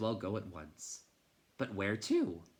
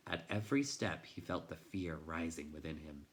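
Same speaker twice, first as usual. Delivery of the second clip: hushed fear; 4 semitones lower, 6 dB quieter than usual. A narrator's reading. Fear creeping up on Bastian.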